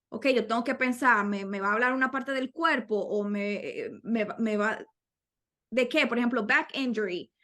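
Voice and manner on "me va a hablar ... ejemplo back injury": normal talking voice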